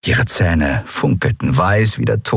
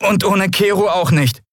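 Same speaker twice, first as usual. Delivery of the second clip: less convinced; 12 semitones higher than usual. A narrator's reading. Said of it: "mit etwas weniger Überzeugung".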